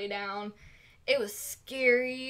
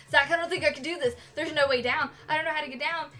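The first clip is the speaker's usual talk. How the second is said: freaking out; 2 semitones higher, much faster than usual. Retold or imitated. Girlfriend panics to Zach on the rising ski lift, fast and frightened. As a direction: rush it like you're stuck on the lift. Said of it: "I'm freaking out".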